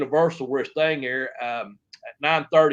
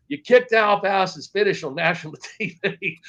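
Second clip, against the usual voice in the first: retold scolding; 5 semitones higher than usual. Boss spells out the offence, retold.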